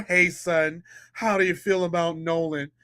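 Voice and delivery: a lightly voiced easygoing father; mock dad voice. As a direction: play the laid-back dad, low and soft. Mocking the dad checking on son.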